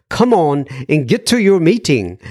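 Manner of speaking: put-on half-hearted stab at a Glasgow accent; loose, amateur Glasgow accent; bad Glasgow accent. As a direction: badly fake a Glaswegian mother urging. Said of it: "in her Glasgow accent".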